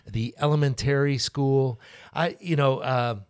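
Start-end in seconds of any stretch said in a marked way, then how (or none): 0.1-1.8 elementary stressed on the ta, elemenTARy; elementary with the Michigan stress. Shown as a demonstration. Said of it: "the emphasis on the wrong thing".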